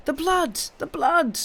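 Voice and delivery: high cry of shocked excitement. A narrator's reading. Isabel leaping about at the sight of blood, crying out high. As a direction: squeal it out, high and thrilled.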